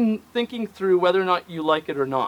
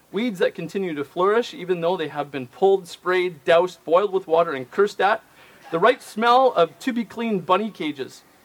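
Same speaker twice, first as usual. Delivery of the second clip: usual speaking voice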